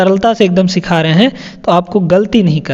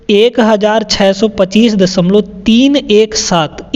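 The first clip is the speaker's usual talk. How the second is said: slow, with "तीन एक सात" read as three separate digits; slower than usual. Shown as a demonstration. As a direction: read it out slowly, giving "तीन", "एक", "सात" one at a time. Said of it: "एक एक करके पढ़ते हैं". (धीरे-धीरे, "तीन एक सात" का एक-एक अंक अलग करके)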